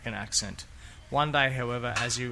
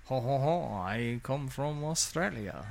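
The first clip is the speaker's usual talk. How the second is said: slow, badly faked French accent; a clumsy French accent saying Australia; slower than usual. Mocking foreign accent syndrome, bad French accent. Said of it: "My French accent's really bad today".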